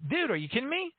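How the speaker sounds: high-pitched incredulous quote; incredulous coworker impression; retold disbelief.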